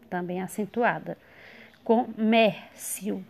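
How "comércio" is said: "Comércio" very slowly in pieces, strong MÉR; stressed middle syllable. Shown as a demonstration. Teacher sounding out for students, "Comércio" with stressed, drawn-out MÉR. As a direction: lean long on MÉR in "Comércio". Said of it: "sílaba tônica mer".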